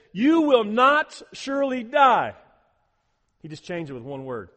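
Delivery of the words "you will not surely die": high, loud, slow emphatic denial; emphatic lie. Retold or imitated. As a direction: hammer the lie home loudly and slowly. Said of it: "he says".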